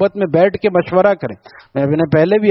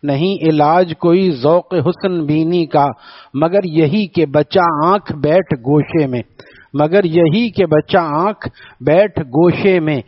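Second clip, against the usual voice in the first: slow, measured verse recital; poem recitation; slower than usual. Acted. Preacher recites a couplet to the congregation, slow verse recital.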